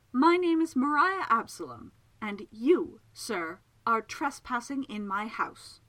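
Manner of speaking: haughty self-announcement, starting high and loud; high scorn. Acted. Miss Absalom confronts a trespasser in her house, scornful. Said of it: "blisteringly high degree of scorn".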